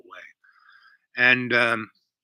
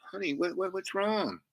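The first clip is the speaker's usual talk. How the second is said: soft, higher-pitched concerned question; 8 semitones higher, 6 dB quieter than usual. Retold or imitated. Man to the woman he hears crying, concerned. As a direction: gently ask what's the matter, voice lifted.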